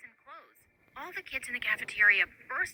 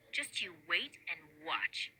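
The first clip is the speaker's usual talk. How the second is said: slow threatening whisper; menacing whisper; 7 semitones lower, 10 dB quieter, slower than usual. Acted. Bully's parting threat.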